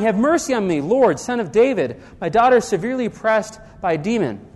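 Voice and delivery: a preacher's restrained imitation of crying out; retold crying out. Canaanite woman begs Jesus for her daughter, mildly crying out. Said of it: "she comes crying".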